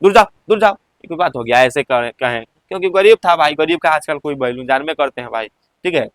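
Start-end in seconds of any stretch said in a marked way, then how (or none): 0.0-0.7 mock scolding, shooing someone away; lightly acted rebuke in short, repeated bursts; scolding dismissal. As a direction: shoo off a begging child with a mild scold. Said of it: "छिड़क कर".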